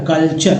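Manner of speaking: कल्चर joined from कल and चर, said as kal-char; slow blended culture. Shown as a demonstration. Teacher blending कल and चर into कल्चर. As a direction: say कल्चर by sounding कल then चर together. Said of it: "कल और चर".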